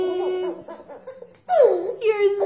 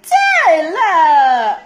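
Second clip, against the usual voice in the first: scolding call; 4 dB louder than usual. Real, not acted. Scolding baby after being hurt.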